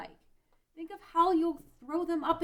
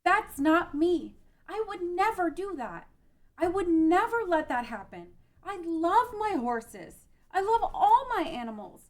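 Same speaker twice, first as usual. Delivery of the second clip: defiant denial; 5 dB louder than usual. Acted. Refusing her reflection.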